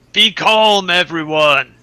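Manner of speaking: projected, carrying call. A tabletop player's character stands up to address the crowd, in a loud voice. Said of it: "stand up in a loud voice".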